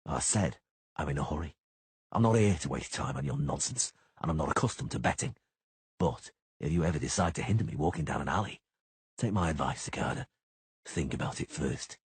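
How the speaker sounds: menacing low-voiced witcher; Geralt voice. Geralt's cold reply.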